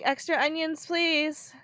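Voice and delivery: tired of repeating, push it out; exasperated. Retold or imitated. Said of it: "Like, exasperated".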